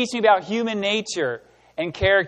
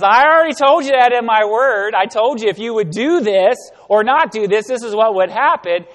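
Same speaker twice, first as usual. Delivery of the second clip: gentle rebuke; 5 semitones higher, 9 dB louder than usual. Pretend. The Lord correcting, voiced.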